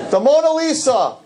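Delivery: high-pitched hammed-up exclamation; mock awe. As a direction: mimic overexcited fans, voice shooting way up. Mock awe at the famous painting.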